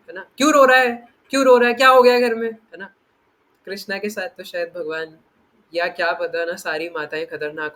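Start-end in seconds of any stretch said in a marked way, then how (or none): 0.4-2.5 loud, high, fast scolding mother; yelling mother. Retold or imitated. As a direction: fire off the nagging like an angry mom, loud and rushed. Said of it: "तो mummy क्या कहती थी".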